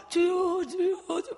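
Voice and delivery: high, tearful repeated cry; crying out to God. Retold or imitated. Retelling weeping prayer, tearful high cry. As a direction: sob out the Lord's name. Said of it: "막 계속 우는 거지".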